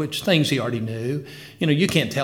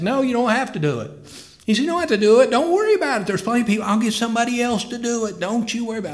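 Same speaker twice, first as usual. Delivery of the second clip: much higher pitched, pressing reassurance; insistent old pastor; 8 semitones higher, faster than usual. Retold or imitated. Old pastor waving off tearful Brother Kim, high insistent reassurance. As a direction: lift the voice high and insist he needn't.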